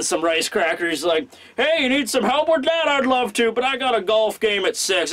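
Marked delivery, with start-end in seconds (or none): 1.6-5.1 high-pitched, breezy comic voice; carefree teasing retiree. Acted. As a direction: chirp it in passing to needle a busy colleague. Sengoku teasing busy Sakazuki in passing.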